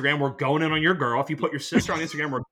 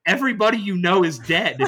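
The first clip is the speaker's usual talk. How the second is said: laughing while quoting; 3 semitones higher, 5 dB louder than usual. Retold or imitated. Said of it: "he looks at me dead in the eyes and goes".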